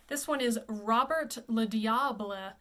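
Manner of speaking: Robert le Diable said slowly, Robert as ro-BEHR; French pronunciation. Shown as a demonstration. Coach introducing the opera title in French. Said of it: "you would say Robert".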